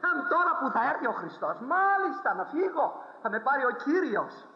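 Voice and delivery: high, quick, happy exclamation; joyful old woman. Retold or imitated. Simple sister telling the preacher of her joy, high and quick. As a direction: rejoice at being taken.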